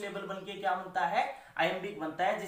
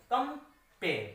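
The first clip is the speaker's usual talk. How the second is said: कंपेयर parted into कम and पेयर, pitched higher; syllable split; 4 semitones higher, much slower than usual. Shown as a demonstration. Teacher counting syllables for students, word split in two. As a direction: break कंपेयर after कम.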